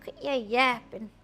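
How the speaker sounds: pet voiced with a put-on American accent. Pet demanding treats from mom, mock American accent. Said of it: "I don't know why he's American now".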